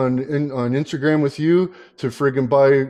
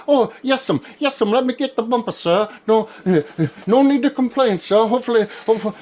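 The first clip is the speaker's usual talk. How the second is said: mock polite Tippy; 5 semitones higher, faster than usual. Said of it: "She'll be".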